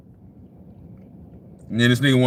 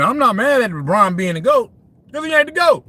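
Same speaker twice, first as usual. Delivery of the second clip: heated rant; 8 semitones higher than usual. Real, not acted. Streamer to chat, rising to an excited cry. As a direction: push it up into an excited, worked-up cry. Ranting about LeBron to chat.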